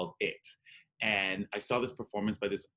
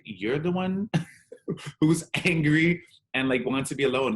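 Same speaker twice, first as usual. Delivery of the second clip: mom's voice, much higher and louder, with a laugh; imitating mom; 7 semitones higher, 7 dB louder than usual. Son retells mom answering him at Christmas, higher and louder. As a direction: play mom protesting, half laughing.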